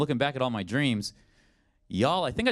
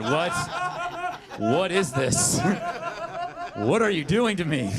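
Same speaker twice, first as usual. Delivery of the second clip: exasperated; 10 semitones higher, slower than usual. Acted. Pleading with store clerk.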